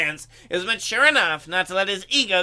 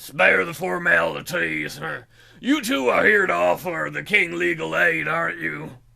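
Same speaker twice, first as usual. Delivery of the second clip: dopey, dim-witted voice, rough and creaky; 4 semitones lower than usual. Voicing a character greeting two visitors, in a dumb voice. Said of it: "giving him a dumb voice".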